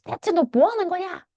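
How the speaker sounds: high-pitched mock scolding father; imitating an angry dad. Teacher imitating the father yelling at his son, high-pitched mock scolding. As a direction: squeak it out like a cross dad. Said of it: "막 소리를 지르면서".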